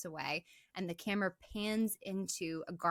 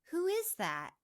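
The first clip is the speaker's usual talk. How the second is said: higher, worried question into the dark; nervous call; 9 semitones higher than usual. Retold or imitated. Imitating Claire calling toward the closet, high and uneasy.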